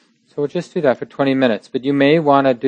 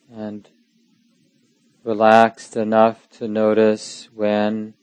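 slow, spacious meditation guidance with long pauses; unhurried, even phrases, leaving silence between them; guided meditation. Real, not acted. Teacher guiding sitters to notice anxiety without judging, slow meditation voice.

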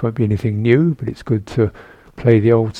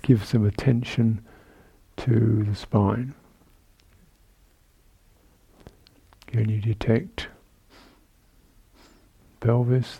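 calm, measured meditation guidance with long pauses; guided meditation; 4 dB quieter than usual. Real, not acted. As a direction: guide sitters gently through the body, leaving space between phrases. Leads a seated body-awareness meditation.

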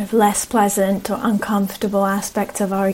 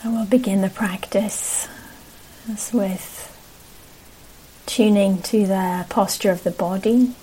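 unhurried meditation guidance with long pauses; guided meditation. Real, not acted. Teacher settling a group into posture, guided meditation. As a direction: ease them gently into practice, leaving space between phrases.

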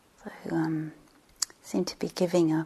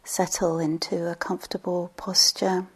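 unhurried meditation guide, long pauses between phrases; guided meditation. Real, not acted. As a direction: settle listeners gently, leaving space after each phrase.

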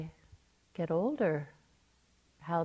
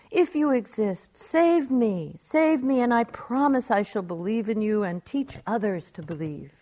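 raised, higher begging that eases off by the end; pleading; 3 semitones higher, 3 dB louder than usual. Retold or imitated. Woman hanging from a tree begs God to save her. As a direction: bargain urgently for rescue, then settle into the promise.

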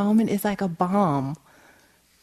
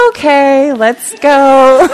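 loud, higher, imitating mother's snap out of anger; sudden cheery switch; 8 semitones higher, 13 dB louder, much slower than usual. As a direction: call it out as if a spell lifted. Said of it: "like this magic spell came over her".

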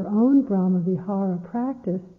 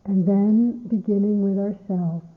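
unhurried meditation guidance with long pauses; guided meditation. Acted. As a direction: ease listeners into stillness, phrase by phrase.

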